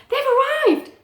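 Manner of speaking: storybook exclamation of alarm; startled character line; alarmed cry. A narrator's reading. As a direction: call it out in mild panic. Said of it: "cried Boswell".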